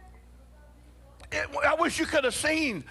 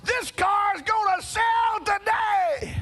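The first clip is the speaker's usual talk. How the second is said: auctioneer announcement; 9 semitones higher, slower than usual. Retold or imitated. Auctioneer telling the room the car will sell. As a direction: proclaim it to the whole crowd.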